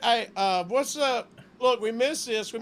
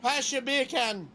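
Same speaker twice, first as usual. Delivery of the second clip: put-on Jamaican accent; slower than usual. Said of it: "saying bacon in Jamaican".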